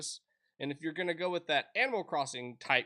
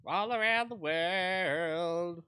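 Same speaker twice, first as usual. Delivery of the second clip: announcer voice; 4 semitones higher, 5 dB louder, much slower than usual. Pretend. Slow mock-grand announcement.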